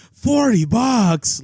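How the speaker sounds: loud, high, slow indignant shout; retold yell. Garage-sale seller yelling back at a lowball offer, loud retold yell. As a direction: hurl the lowball price back in outrage. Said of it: "Like, yells at me".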